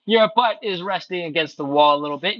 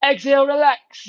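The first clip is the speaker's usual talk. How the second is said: breathing cue; 7 semitones higher than usual. Shown as a demonstration. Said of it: "Let's do it again".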